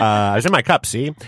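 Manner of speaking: hint of a 1930s gangster cop; lightly voiced old-time copper with a tacked-on see; old-timey cop voice. Shown as a demonstration. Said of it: "I got all that old-timey cop slang, see?".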